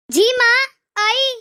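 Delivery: loud answer from another room; calling back. Acted. Daughter answers her mother's call from the kitchen, loud reply. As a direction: shout back that you're coming.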